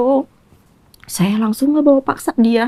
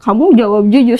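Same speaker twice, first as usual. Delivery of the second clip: annoyed demand; 3 dB louder than usual. Retold or imitated. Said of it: "saya tambah kesel".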